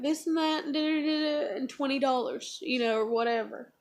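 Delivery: tearful, choked words through real tears; real crying. Real, not acted. Daughter tearfully tells dad about twenty dollars, really crying. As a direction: get the words out while actually crying. Retelling her answer while crying.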